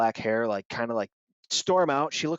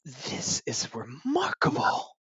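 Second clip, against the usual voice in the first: impressed; 3 semitones higher, slower than usual. Acted. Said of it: "they go".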